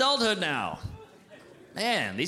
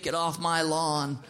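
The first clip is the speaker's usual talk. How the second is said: slow, grumbling get-off-my-lawn grown-up; lightly voiced crabby old man; grumpy old man; much slower than usual. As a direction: growl it like a cranky neighbour. Grumpy grown-ups of his youth.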